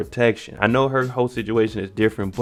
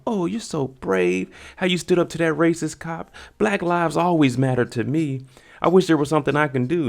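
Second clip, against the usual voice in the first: higher-pitched mock admiration; gushing white girl; 7 semitones higher than usual. Girl flattering Jake for standing up, high gushing imitation. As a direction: stretch the opening praise in a raised, fawning voice.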